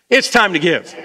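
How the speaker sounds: rousing, convinced declaration; with conviction. Shown as a demonstration. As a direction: say it like you really mean it. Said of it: "Say it again with some conviction this time".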